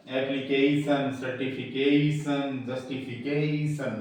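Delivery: slow एप्लीकेशन, सर्टिफिकेशन, जस्टिफिकेशन with long "KEI"; slow word list, each "kei" drawn out in एप्लीकेशन, सर्टिफिकेशन, जस्टिफिकेशन; strong syllable. Shown as a demonstration. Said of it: "इस तरह बोलेगा".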